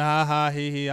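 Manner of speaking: spoken mock laugh, lightly imitated; mocking the laughter. Fan imitating the troll laughing at his team, mocking. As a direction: mimic a troll's laugh in words. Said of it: "he was in there laughing".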